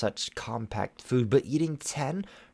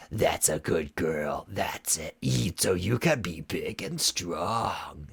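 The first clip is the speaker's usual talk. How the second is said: mock praise; 3 semitones lower, slower than usual. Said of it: "Shadow Weaver praised".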